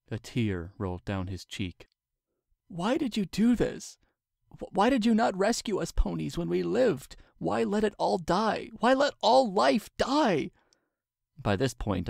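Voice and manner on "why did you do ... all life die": much higher, building to a cry; rising distraught scream. A narrator's reading. Twilight screams at the weeping king, much higher and louder. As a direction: break into accusing screams. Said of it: "I was screaming".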